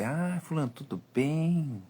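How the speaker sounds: butter up the rich client on the phone; sweet-talking greeting. Retold or imitated. Seller sweet-talking a rich client on the phone, slow and overly friendly. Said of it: "aquela conversa mole".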